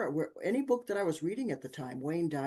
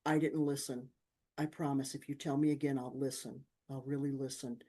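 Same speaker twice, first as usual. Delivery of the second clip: sincere apology; 2 semitones lower, 4 dB quieter than usual. Retold or imitated. Mother apologizing to her son, soft and sincere. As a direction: apologize gently, meaning it. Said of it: "and I apologize".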